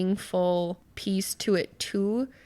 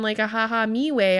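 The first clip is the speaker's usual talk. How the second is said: usual speaking voice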